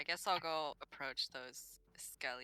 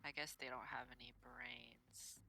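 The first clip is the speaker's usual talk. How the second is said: whispered aside, pitch higher; 9 semitones higher, 9 dB quieter than usual. Real, not acted. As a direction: murmur it under your breath so the others barely hear.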